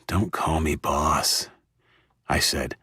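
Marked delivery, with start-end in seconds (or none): 0.1-1.5 sleep-fuddled. Acted. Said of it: "still sleep-fuddled".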